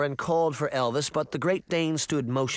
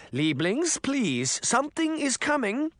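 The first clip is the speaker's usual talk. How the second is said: begging; 12 semitones higher than usual. A narrator's reading. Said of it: "Missus Grimm begged".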